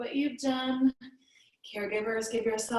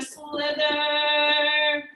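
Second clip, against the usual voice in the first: long stretched slither, rising louder; drawn-out slither; 3 semitones higher, 6 dB louder than usual. Pretend. Teacher playing snake with kids in yoga, drawn-out slither. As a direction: stretch the word out like a snake sliding.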